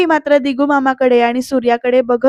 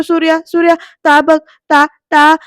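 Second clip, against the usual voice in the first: raised, urgent calls to get attention; tugging at him with his voice, pointing; urgent calling; 3 semitones higher, 5 dB louder than usual. Acted. Mute uncle urgently calling out. (घाईघाईने हाक मारणे)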